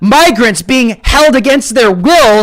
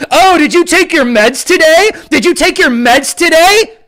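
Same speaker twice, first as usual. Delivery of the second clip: mocking critics; 5 semitones higher than usual. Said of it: "make a joke out of it".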